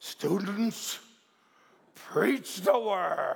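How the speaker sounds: put-on slow, hoarse, raspy elderly man's voice. Speaker recalls an elderly professor addressing students, imitating Dr. Eno's raspy voice. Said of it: "had this raspy voice, and he used to say it just like this".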